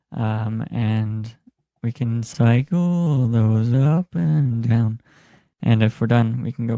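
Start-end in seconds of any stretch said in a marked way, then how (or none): 1.8-5.0 slow auto-tuned voice; auto-tune. Shown as a demonstration. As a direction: voice through pitch-correcting auto-tune. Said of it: "we have some auto-tune".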